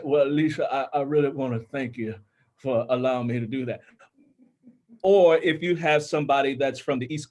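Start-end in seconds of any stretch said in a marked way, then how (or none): 0.0-3.8 lightly done slack-jawed Mississippi accent; a hint of Mississippi, jaw loose like a smoker's. Shown as a demonstration. Narrator demonstrating a character to an author, light Mississippi accent. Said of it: "has a Mississippi accent ... slack jaw".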